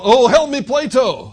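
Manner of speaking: hammed-up plea hurled at the sky; mock desperate yell. Preacher mocks a dying man calling Plato, mock yell. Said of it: "I've never heard of anybody yell".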